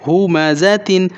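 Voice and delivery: slow, drawn-out ہومزتن with each syllable stretched; slow recitation. Shown as a demonstration. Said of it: "وقف دوران کیا پڑھیں گے؟". (آہستہ کھینچ کر ہومزتن)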